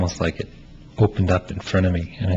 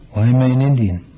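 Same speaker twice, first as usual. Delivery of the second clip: lightly voiced young man, a little higher and louder, searching; Melvin; 4 semitones higher, 4 dB louder, faster than usual. Playwright reads Melvin pressing his friend, lightly pleading. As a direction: press your friend for who you are, half-pleading. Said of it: "And he's talking to Nigger in this one".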